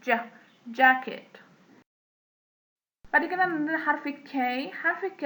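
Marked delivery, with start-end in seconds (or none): 0.0-1.4 "ج" and "jacket" begun with a D. Shown as a demonstration. Teacher demonstrating J for learners, D-tinged "jacket". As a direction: start "jacket" on a D released into J. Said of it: "تحس إن في دي معاها".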